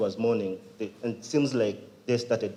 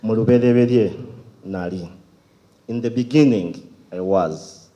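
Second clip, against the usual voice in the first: measured title announcement; poem recitation; 8 dB louder than usual. Acted. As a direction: declaim each short phrase, then let it fall.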